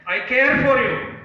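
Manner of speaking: high, loud shouted declaration; top of voice. Acted. Father tells son what to shout, top of voice. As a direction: call it out to the whole mountain. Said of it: "at the top of your voice".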